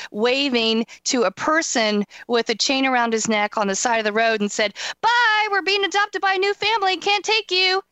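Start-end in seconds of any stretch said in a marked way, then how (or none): 5.0-7.8 high mock farewell. Quoting person in cat suit.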